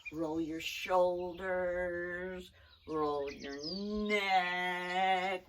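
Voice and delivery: put-on slow, calm movement cues for kids; teacher calmly guiding a wiggle break; guided stretch break. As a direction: talk the class through a stretch.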